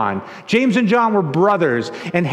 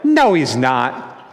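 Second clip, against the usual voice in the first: low, slow mock-parental denial; dismissive mom; 6 semitones lower, slower than usual. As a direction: play a parent slowly shutting it down. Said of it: "Mom's like".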